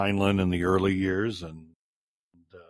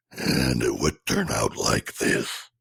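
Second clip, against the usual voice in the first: low, slow inhaled Death voice; talking while inhaling; 9 semitones lower, slower than usual. Shown as a demonstration. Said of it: "where I'd speak on the inhale".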